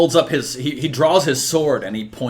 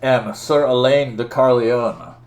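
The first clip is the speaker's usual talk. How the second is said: slow, grand, declamatory challenge; stately knight, loud on his own name; accusing knight; 6 dB louder, slower than usual. Acted. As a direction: proclaim a grievance with drawn-out weight. Voices challenger Sir Elaine.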